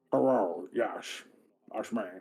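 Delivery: very slow, bubbling, gurgling as if underwater. Trying out a voice for a character, sounding almost like he's drowning. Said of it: "sounds almost like he's drowning".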